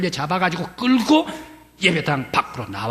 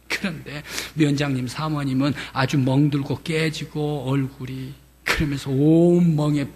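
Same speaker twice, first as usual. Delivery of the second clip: ordinary talk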